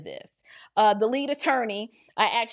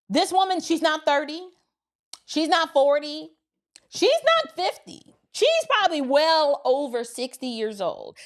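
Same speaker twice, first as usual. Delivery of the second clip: each line higher and more incredulous; rising disbelief; 3 semitones higher than usual. Real, not acted. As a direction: build the disbelief to a high peak. Building disbelief about her age.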